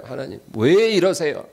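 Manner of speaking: mock complaint to God. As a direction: imitate someone protesting in resentment. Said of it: "막 원망하는 거예요". (하나님께 원망하듯 따지는 말투)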